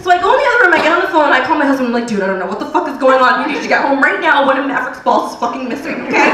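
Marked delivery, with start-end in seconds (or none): 2.1-6.3 frantic. Retold or imitated.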